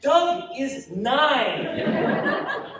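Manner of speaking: very slow, high, loud, stretched through laughter; mother laughing, can barely say it; laughing disbelief. Acted. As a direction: drag it out while laughing. Mother laughing at son's claim.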